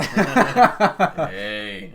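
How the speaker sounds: high, loud warning hey; mock scold. Real, not acted. Scolding his friend's dirty joke, loud and high. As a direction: call out the joke playfully.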